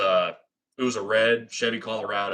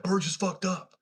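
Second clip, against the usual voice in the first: much higher, strained panicked blurt; panicked alarm; 11 semitones higher than usual. Retold or imitated. Dude running up the driveway tells the friends, panicked. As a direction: sell the panic of bad news.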